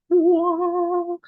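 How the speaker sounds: high, stunned gasp of a whoa; sudden high amazed exclamation; awed whoa. Retold or imitated. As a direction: let it burst out high in wonder. First opening of the records.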